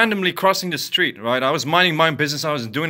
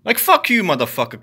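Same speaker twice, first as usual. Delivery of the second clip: angry curse; 3 semitones higher than usual. Real, not acted. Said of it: "I'm fucking pissed".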